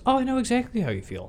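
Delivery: high, quick mock empathy; mock overeager boyfriend. Imitating Peter cutting in on Mary Jane at dinner, overeager.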